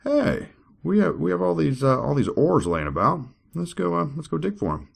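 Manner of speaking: high, eager, excited villager; squeaky eager prospector; Nephite voice. Acted. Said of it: "the Nephite said".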